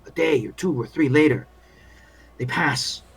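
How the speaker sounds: world-weary field doctor grumbling; lightly voiced war medic venting doubts; weary army doctor.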